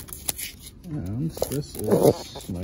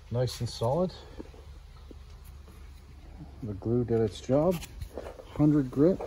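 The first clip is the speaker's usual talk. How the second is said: speaking muffled behind a mask; muffled through mask. Real, not acted. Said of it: "I have a mask on, so it might sound like I'm muffled".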